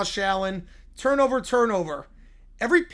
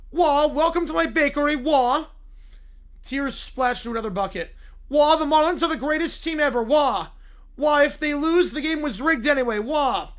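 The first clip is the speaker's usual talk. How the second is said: loud, higher wailing "wah" between words; mock crying; 4 semitones higher, 4 dB louder than usual. Summer greets customers at her flooded bakery, hammed-up wailing. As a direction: bawl it out like a hammed-up crybaby. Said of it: "Summer stands behind the counter crying".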